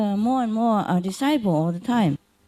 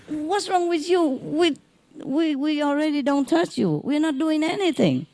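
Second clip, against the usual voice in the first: hospital staff; 9 semitones higher than usual. Retold or imitated. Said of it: "and they say".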